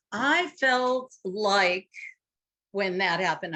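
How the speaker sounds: slow, emphatic imitation of a vague complaint; complaining partner. Mocking how couples complain to each other, slow and drawn out. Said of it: "I love it when people say".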